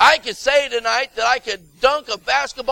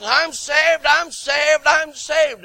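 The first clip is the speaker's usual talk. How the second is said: mock claim; 5 semitones higher, slower than usual. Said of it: "you can say all night long".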